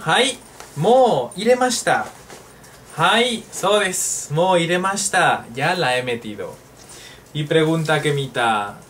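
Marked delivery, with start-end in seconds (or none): 0.0-5.5 bright high "Hai, mo iremashita"; cheerful answer role. Pretend. Teacher playing the answering partner, bright and high. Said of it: "Voy a meterla".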